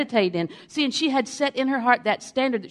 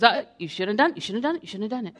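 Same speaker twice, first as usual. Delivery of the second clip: quick, repetitive little inner voice; nagging little voice; faster than usual. Acted. Preacher voicing conscience for the congregation, nagging little voice. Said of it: "that little voice that goes".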